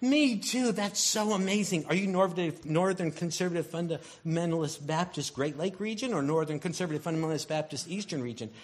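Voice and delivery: high, fast and gushing; thrilled. Acted. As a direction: squeal with delight at each match. Excited believer questioning a stranger.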